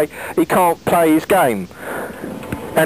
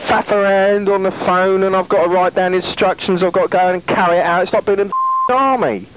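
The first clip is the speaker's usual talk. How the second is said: exasperated rant; 4 semitones higher than usual. Real, not acted. Caller rants about the hassle.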